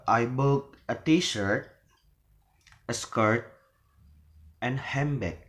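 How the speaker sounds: "t-shirt", "skirt" left open, "handbag" closing downward; list intonation. Shown as a demonstration. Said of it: "so it is rising".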